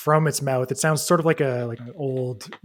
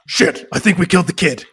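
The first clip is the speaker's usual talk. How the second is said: guilty driver; 5 semitones higher, 8 dB louder than usual. Acted.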